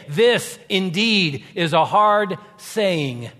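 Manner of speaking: slow, loud complaining disciple; slow loud grumble; grumbling disciple. Acted. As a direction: drag it out like a grumbler.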